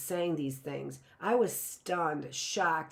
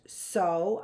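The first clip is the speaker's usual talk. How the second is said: angry; 4 dB louder than usual. Acted. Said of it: "I cried angrily".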